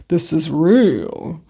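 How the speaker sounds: slow, sure and settled; confident. Retold or imitated. Tarot reader telling her viewer to say it, slow and confident. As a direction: state it like it's beyond question, slowly. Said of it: "And very confidently".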